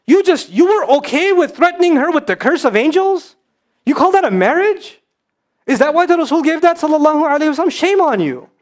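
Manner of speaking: rising outrage at misuse of faith; indignant rebuke. Real, not acted. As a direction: raise the pitch and scold the husband. Scolding husbands who misuse hadith.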